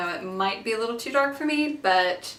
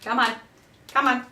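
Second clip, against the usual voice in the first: rising higher and louder, pleading with the packaging; building frustration, more urgent each time; impatient urging; 8 semitones higher, 5 dB louder than usual. Real, not acted. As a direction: come on, come on, open up. Struggling to poke open plastic.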